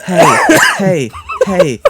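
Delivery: mock feeble hailing, evenly repeated; weak-voiced calling imitation. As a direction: imitate calling out without raising the voice. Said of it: "he can't raise his voice any".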